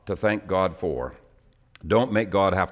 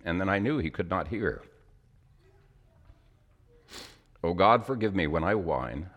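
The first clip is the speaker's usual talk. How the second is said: emotional. Real, not acted. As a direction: let the feeling thin the voice. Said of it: "the reason I get emotional".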